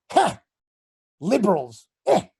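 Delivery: scoffing neighbor. Retold or imitated. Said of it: "And I'm like".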